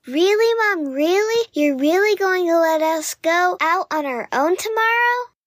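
put-on high, thrilled child voice; excited cub. A narrator's reading. Cub asks Mom about going out alone, high excitement. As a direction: squeak with delighted disbelief. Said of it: "the excitement the news had caused".

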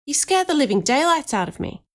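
high-pitched, voiced stage whisper; startled whisper. A narrator's reading. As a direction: complain as a just-startled boy. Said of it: "he whispered down to me".

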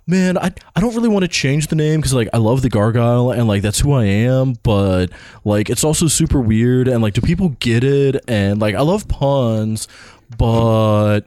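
lightly voiced college bro; a hint of whiny-to-myself dude bro rambling. Host mimicking himself agonizing over the name change, lightly put-on bro voice. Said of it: "That's how I sounded to myself".

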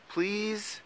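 very high, drawn-out plea; begging. A narrator's reading. Mole coaxes Troll back inside, begging. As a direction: beg in a tiny high voice. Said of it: "begged Mole".

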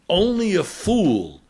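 put-on a light Eastern European accent, grave and serious. Old ship's engineer warning the doctor, in a light serious Eastern European accent. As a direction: voice the old Eastern European sailor, understated and solemn. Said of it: "in his Eastern European accent".

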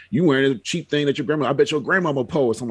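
imitating a teasing kid; retold mocking taunt. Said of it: "dogging that out".

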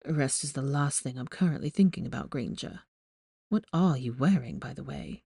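put-on teasing young man voice. A narrator's reading. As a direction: tease her from the hospital bed. Malfoy voiced, low and teasing.

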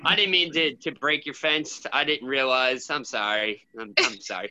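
groggy, low mumbled apology; hungover. Acted. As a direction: mumble sorry like you're hungover. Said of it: "It's more hungover sorry".

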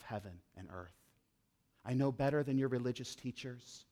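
low, soft, steady voice of Jesus claiming authority; quiet solemn Jesus. Acted. Preacher voicing Jesus to his listeners, low and solemn. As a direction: lay each claim down softly and gravely.

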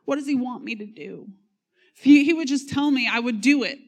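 lightly mock the earnest believer waiting for instructions; mild mock of a sappy seeker asking God's will; sappy pious voice. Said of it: "it's sappy and it's spiritual".

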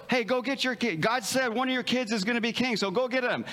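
a touch of excited urgency; eager summons. Retold or imitated. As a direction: send someone running for the sons. Voicing the call to fetch the sons.

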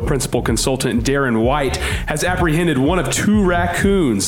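breaking-news bulletin voice; old radio announcer. Acted. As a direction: read it like a live news flash. Mock news bulletin read.

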